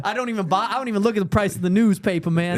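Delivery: lightly put-on rapper's swagger; code-switch into a mock rapper; joking rapper voice. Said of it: "start doing this voice now".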